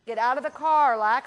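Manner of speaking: firm command. Shown as a demonstration.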